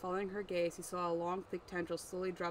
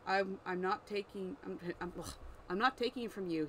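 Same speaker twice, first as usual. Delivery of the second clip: a touch raised, protesting; mild bellow. Acted. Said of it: "he bellowed in reply".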